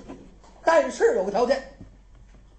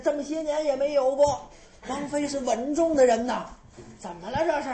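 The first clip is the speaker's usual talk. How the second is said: put-on flustered old maid; 3 semitones higher than usual. Maid bursts in with bad news.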